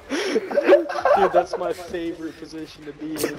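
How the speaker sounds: laughing through words. Real, not acted. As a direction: giggle as you say it. Laughing reply.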